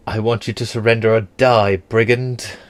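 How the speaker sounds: hammed-up British warlord ordering brigands to yield; British accent. Danish warrior threatens trapped looters, in a mild British accent. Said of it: "I have a British accent".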